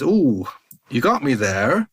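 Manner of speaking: put-on grandpa's drawn-out Norfolk accent; lightly voiced Norfolk accent. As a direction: imitate an old Norfolk grandpa, swooping pitch. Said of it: "in his kind of Norfolk action, accent".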